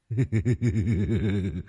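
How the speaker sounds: soft sly ghostly snicker; leering giggle. A narrator's reading. Possessed man giggles slyly at the master. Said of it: "lại nhăn nhở cười".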